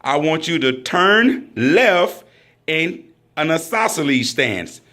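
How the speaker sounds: slow, deliberate range command. Shown as a demonstration. Instructor slowing the turn command down for the shooters. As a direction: spell out each word for the trainees. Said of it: "I'm gonna try to say this very slow".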